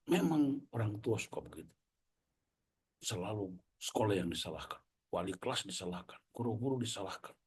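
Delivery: mock an aggrieved teacher listing grievances; angrier teacher. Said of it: "dia tambah marah".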